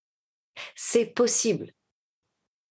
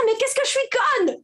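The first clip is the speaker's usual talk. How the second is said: high, laughing jab at yourself; mock self-scolding; 14 semitones higher than usual. Woman mocking how we insult ourselves, high and amused. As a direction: play the familiar self-insult. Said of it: "de dire".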